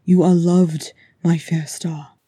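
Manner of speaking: loud, earnest low-voiced declaration; fervent and low. Thorin speaks to his beloved kinsman, fervent and low. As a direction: pour out devotion with steady force. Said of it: "he said, fervent and low".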